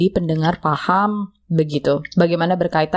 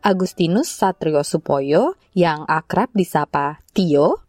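measured scripted report read; radio feature intro. Real, not acted. Host introducing a student's profile to listeners, scripted presenter read.

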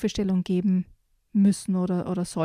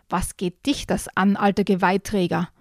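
snapped angrily. Acted. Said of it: "fauchte der Dachs aber nur böse".

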